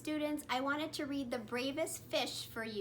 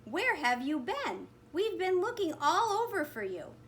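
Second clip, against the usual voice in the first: excited friends; 6 semitones higher, 3 dB louder than usual. A narrator's reading. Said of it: "his friends cheered".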